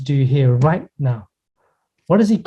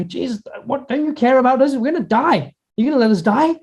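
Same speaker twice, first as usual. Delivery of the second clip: high, frantic cry of frightened men in a storm; panicked disciples; 8 semitones higher than usual. Acted. Frightened disciples begging a sleeping Jesus, panicked high cry. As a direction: plead with terror, pitch up high. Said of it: "they go to him and go".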